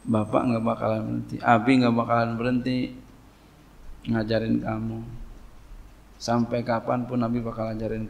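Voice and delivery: calm, measured reassurance; patient parent. Shown as a demonstration. Father telling his child to cry it out, patiently calm. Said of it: "Ngomongnya begini".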